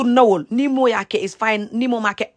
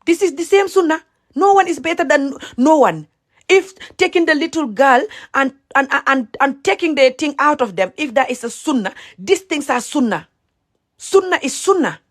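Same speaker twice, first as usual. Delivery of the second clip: impassioned rant, pitched higher; real heated anger; 5 semitones higher than usual. Real, not acted. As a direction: argue with rising anger. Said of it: "like you're feeling me now".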